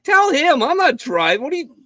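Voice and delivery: put-on high, loud drunk protest; drunken shout. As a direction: yell it like a hammered passenger refusing to drive. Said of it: "And I'm like".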